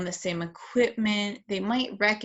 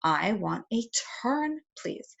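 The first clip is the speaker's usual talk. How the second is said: modeling a request; 4 dB quieter, slower than usual. Shown as a demonstration. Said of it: "you're gonna model".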